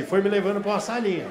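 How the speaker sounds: usual speaking voice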